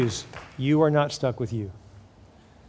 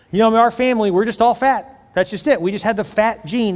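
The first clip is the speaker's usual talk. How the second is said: higher-pitched, insistent mock excuse; mock excuse-making; 5 semitones higher, 4 dB louder than usual. Voicing a family blaming the fat gene, mock insistent. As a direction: play up the family's lame excuse.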